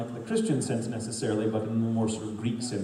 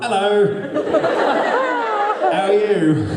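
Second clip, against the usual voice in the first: loud, high Northern British greeting; Northern British accent; 12 semitones higher, 9 dB louder than usual. Shown as a demonstration. Voice actor imitates how they talk up there, Northern British accent. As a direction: call it out in broad Northern British. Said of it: "Northern Sutherland, where they're all like".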